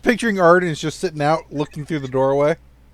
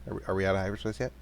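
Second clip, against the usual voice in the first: nervous Jawa voice; 7 semitones lower, 7 dB quieter, much faster than usual. Acted.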